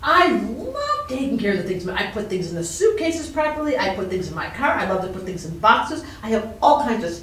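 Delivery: talking through a mouthful of food; words round a bite of food, mouth full. Real, not acted. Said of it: "you said not to talk with your mouth full".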